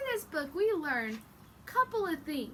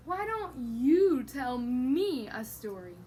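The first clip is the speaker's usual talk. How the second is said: slow sleepy yawn then a slow question; yawning papa; 2 semitones lower, 4 dB louder, much slower than usual. Acted. Tired papa yawning as he asks the chicken for a story. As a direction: yawn the words out.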